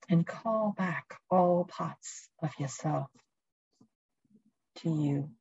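calm, unhurried guiding voice; guided meditation. Acted. Leads a presence meditation.

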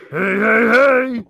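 high shouted hey, hey, hey; Cosby out of jail. Retold or imitated. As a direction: shout it like a giddy old man leaving jail. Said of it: "he was like".

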